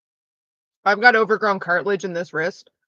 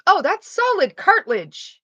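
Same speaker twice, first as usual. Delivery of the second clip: doctor voice; 9 semitones higher, 3 dB louder than usual. Retold or imitated. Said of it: "a specialist who goes".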